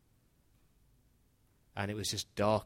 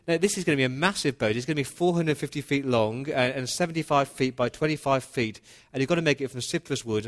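emphatic command; 3 semitones higher, 4 dB louder than usual. Retold or imitated. God insists on huge boat.

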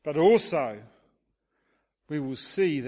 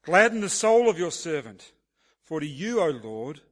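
measured, solemn psalm reading with emphatic openings; scripture reading; 4 dB louder than usual. Acted. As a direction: read the psalm aloud as an earnest prayer. Let's read.

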